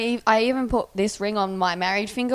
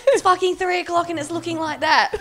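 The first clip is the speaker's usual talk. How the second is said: higher, louder, laughing mock disbelief; 7 semitones higher, 5 dB louder than usual. Waking up seeing Simone, laughing.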